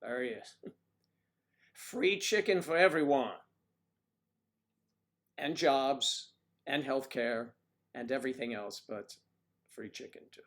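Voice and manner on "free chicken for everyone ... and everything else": campaign promise shout. Pretend. Playing Bernie as the colonel for the chat, laughing rally shout. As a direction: belt it out like a stump speech giveaway. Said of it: "this is Bernie Sanders as the colonel".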